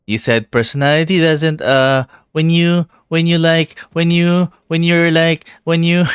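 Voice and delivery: high, loud, giggling through words; breaking up with laughter; laughing. Real, not acted. Struggles through joke, laughing.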